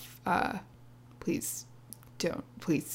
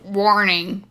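authoritative voice; 4 dB louder, much slower than usual. Shown as a demonstration. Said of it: "You need to be sounding in a really authoritative voice".

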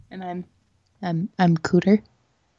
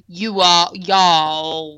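drawn-out, lower Southern y'all; fake Southern accent; 3 semitones lower, much slower than usual. Shown as a demonstration. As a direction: lean into a fake Southern drawl. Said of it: "without putting on a fake accent".

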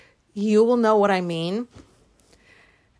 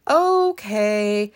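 sobered up. Retold or imitated. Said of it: "so then I stopped laughing".

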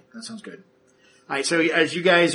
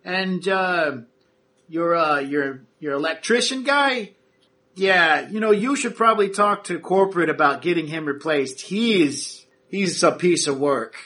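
foreman's voice; 5 semitones higher, 4 dB louder, slower than usual. Acted. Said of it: "he goes".

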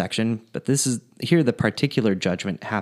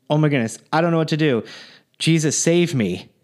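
higher, louder, hammed-up desperate plea; mock panic; 5 semitones higher, 3 dB louder than usual. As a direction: beg like he's about to be turned away. The man panics at heaven's gate.

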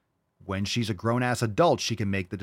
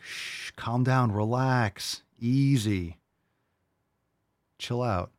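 mock calming; 2 semitones higher, much slower than usual. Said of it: "I'm like".

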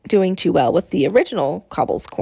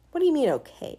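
wary whisper; 6 semitones higher than usual. Acted. Boy's wary question.

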